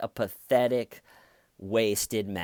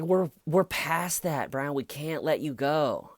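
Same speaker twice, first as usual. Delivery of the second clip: higher, fed-up officer; exasperated cop; 6 semitones higher than usual. Retold or imitated. Police telling the drunk driver it's too late, exasperated. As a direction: talk him down, losing patience. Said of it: "the police are just like".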